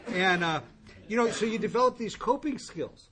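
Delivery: ordinary talk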